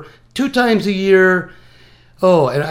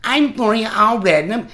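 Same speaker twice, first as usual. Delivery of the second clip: whiny Gloria Allred; 4 semitones higher than usual. Retold or imitated. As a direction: whine out her name to mock her. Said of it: "she's got that whiny ass voice".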